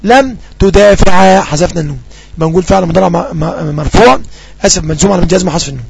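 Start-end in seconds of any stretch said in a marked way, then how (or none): 0.0-1.4 very slow, clear dictation; slow example. Shown as a demonstration. Teacher reading an example sentence to students, slowly. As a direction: draw out each word for the class. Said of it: "لم مثلًا".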